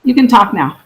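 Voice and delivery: hollow echoing phone line; echoing like in a tunnel. Real, not acted. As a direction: sound as if in a tunnel. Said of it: "it sounds like you're in a tunnel".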